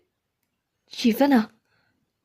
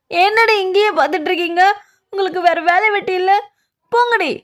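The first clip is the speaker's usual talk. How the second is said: shooing them off; 5 semitones higher than usual. Acted. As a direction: snap at the gawkers to get lost. Woman chases off gawking onlookers.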